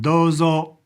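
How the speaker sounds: DOZO with a lengthened first O; long O sound. Shown as a demonstration. Teacher repeating dozo to show the long O. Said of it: "It's got a, a long O sound".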